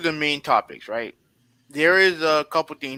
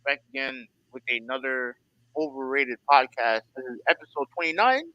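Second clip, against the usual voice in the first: muffled voice, like through a wall; words dulled and covered. Real, not acted. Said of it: "you sound muffled, uh, again during the intro".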